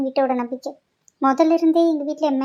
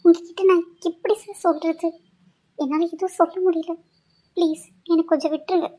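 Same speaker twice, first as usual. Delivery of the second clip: tearful pleading; 3 semitones higher than usual. Acted. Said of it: "ஆனா நீ ஏன் அழுகுற?".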